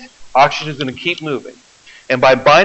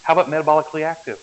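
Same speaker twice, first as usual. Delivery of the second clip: quick, quieter hint, fed to the class; hinting at the answer; 4 dB quieter, much faster than usual. Shown as a demonstration. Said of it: "I'm looking for the easy answer".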